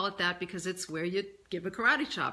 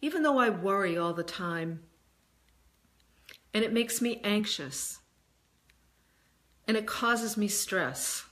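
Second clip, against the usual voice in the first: emphatic. Shown as a demonstration. Guide asks listener to repeat after her, emphatic. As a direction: lean into each clause with conviction. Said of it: "be emphatic the way that I'm being emphatic".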